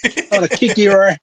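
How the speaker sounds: cocky hammed-up hero brag; mock superhero taunt. Cohost plays Hurricane taunting Spike, cocky mock brag. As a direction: puff up and taunt like a cartoon hero.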